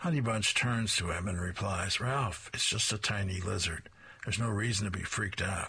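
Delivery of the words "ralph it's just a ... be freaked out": ordinary delivery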